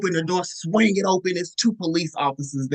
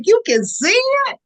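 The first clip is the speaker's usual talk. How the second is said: very high and louder, alarmed; panicked disbelief; 6 dB louder than usual. Retold or imitated. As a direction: squeal it in shock. Panicking self quoted.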